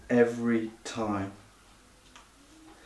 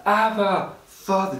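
higher, pleading call; crying out; 6 semitones higher than usual. Shown as a demonstration. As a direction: call out to God like a child. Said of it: "we need to cry out".

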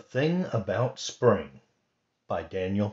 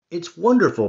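cheeping; 8 semitones higher, 8 dB louder, faster than usual. Acted. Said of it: "Bird cheeped".

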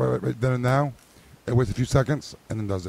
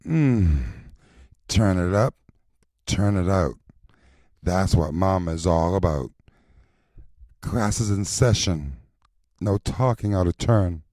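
low sultry mama voice; a touch lower and seductive; sexy voice; 3 semitones lower than usual. Shown as a demonstration. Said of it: "Pretend I'm licking you".

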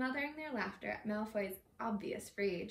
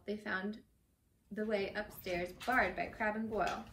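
measured read-aloud storytelling; reading a novel aloud; story narration. A narrator's reading.

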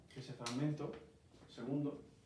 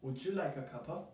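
British English. Shown as a demonstration. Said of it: "lo que está diciendo es esto".

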